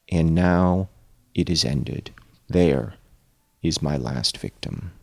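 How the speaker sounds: slow, low reading voice; story narration. A narrator's reading. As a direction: read it like a grim confession. Reads Frankenstein aloud.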